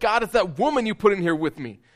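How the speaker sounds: angry, high-pitched, aggressive outburst. Retelling Adam's words to God, acting out Adam's aggression. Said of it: "hear the aggression behind Adam's voice".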